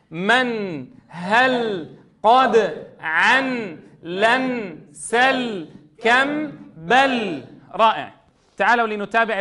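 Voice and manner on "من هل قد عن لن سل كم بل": measured chanting of one-syllable words; joined word recitation. Shown as a demonstration. Teacher reading words joined for students, measured recitation. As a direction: recite each blended word as a separate beat. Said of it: "تعالوا نقرأها درجا".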